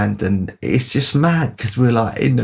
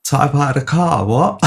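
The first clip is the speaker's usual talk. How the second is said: higher, disbelieving "car?"; echoing the news with raised disbelief; incredulous echo; 5 semitones higher than usual. Retold or imitated. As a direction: repeat it back in shock.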